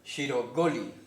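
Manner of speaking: "shirogoli" pronounced carefully for learners; demonstrated pronunciation. Shown as a demonstration. Teacher shows learners how the word is pronounced, demonstrated "shirogoli". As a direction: say "shirogoli" as a model, in its syllable groups shiro-go-li. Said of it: "la pronunciación es".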